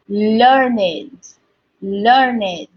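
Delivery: learned said learn-id; learned as two syllables. Shown as a demonstration. Teacher showing pupils the adjective learned, learn-id. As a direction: sound learned with id ending. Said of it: "the form of the noun".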